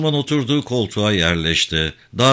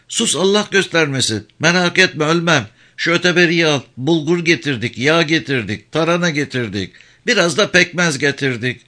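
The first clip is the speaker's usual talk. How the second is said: high, pleading village woman voice; worried old mother; 7 semitones higher than usual. Acted. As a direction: press her son with anxious advice. Mother lists provisions.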